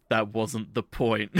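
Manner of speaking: low, slow, laughing deadpan; deadpan through laughter. Retold or imitated. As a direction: flatly correct her while cracking up. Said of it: "Yuki just goes".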